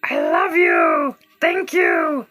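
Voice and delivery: high, loud, gushing thanks. Real, not acted. Host gushes loud thanks to viewers for their gifts. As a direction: throw your thanks at the crowd.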